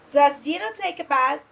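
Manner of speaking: "Does Gino take a bath?" lightly lifted toward "bath"; rising question intonation. Shown as a demonstration. Teacher repeats the question for intonation, voice going up. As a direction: let the voice go up into "bath". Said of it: "The voice goes up".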